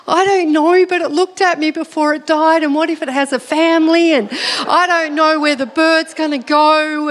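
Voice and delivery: re-enacted fretting, starting high; mildly hammed-up distress; worked up. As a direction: fret aloud in mock panic. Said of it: "just calm down".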